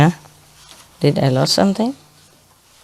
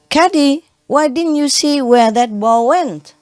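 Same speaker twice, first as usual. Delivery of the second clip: calling the caddy; 8 semitones higher than usual. Retold or imitated. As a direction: call out, then complain.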